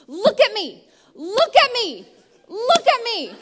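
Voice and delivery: high, loud, insistent repeated plea; calling for attention. Retold or imitated. Mom begging her coloring toddler to look up, loud and high. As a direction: clap and call, rising each time.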